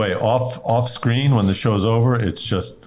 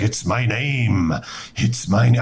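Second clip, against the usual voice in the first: quoting Day-Lewis; 3 semitones lower, slower than usual. Retold or imitated. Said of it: "he's like".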